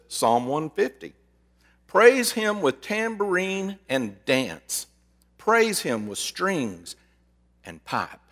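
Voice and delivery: slow, deliberate psalm reading; scripture reading. Acted. Pastor reading Psalm 150 to win the argument, slow solemn reading. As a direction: lay out each Praise him slowly.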